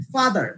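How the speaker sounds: ফাদার with stress on its first syllable, ফা. Shown as a demonstration. Teacher showing students noun stress, first syllable of ফাদার stressed. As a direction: lean on ফা in ফাদার, then fall away. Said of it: "ফা, এটার উপর আমরা stress দিব".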